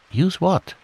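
a hint of a confused teddy; puzzled Pooh. Pooh asking Eeyore what he means, puzzled and high.

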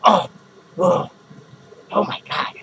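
loud, hammed-up panic about having a stroke; half-joking outburst at the thought of the witch; mock stroke panic. Vlogger to viewers, hammed-up panicked outburst.

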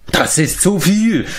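high, drawn-out wail; bitter outcry. A narrator's reading. Former giant lamenting his lot, high outcry. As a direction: cry out in complaint. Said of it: "schrie der ehemalige Riese".

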